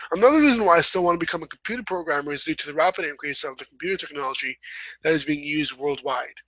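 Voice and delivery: reading her own sentence back, quickly; brisk read-aloud. Shown as a demonstration. Rereading her essay to viewers, read quickly. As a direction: rattle through the sentence fast. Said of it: "I'm gonna read from the last paragraph".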